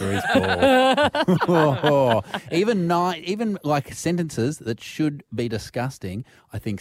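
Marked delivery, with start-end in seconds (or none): 0.0-2.2 imagined rebuff. Acted. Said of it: "And you're like".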